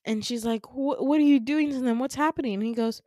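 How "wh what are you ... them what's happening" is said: higher, louder stammered question, mildly acted alarm; alarmed demand. Retold daughter confronting her father about her friends, alarmed. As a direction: demand answers, lightly dramatized.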